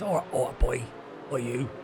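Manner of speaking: mock Essex or Cockney greeting; playful stab at a London accent; London accent attempt. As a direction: try out a London lad accent. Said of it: "I don't know what word it is".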